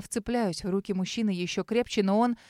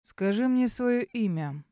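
низкий бархатистый голос; slower than usual. Acted. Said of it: "низким бархатистым голосом".

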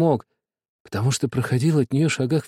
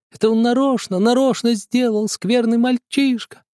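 tearful accusation; 10 semitones higher, 3 dB louder than usual. A narrator's reading. Sister accuses the boy before father, tearful and angry. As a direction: drag out the accusation, upset.

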